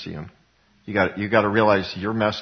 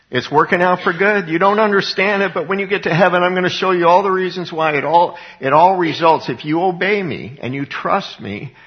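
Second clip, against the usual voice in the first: raised, louder voice of God promising; higher, louder divine reassurance; God speaking; 5 semitones higher, 4 dB louder than usual. Retold or imitated. Pastor voices God's reassurance.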